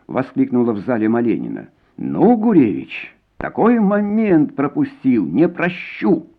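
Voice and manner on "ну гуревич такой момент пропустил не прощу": high, slow, seething threat; angry scolding. A narrator's reading. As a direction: draw it out, furious at the blunder. Colonel furious at missed moment. (злая, медленная угроза)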